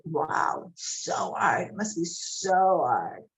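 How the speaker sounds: a breathy, pitying wow; mock pity. Questioning people who pity her, mock sighing. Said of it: "Why do you have pity on me".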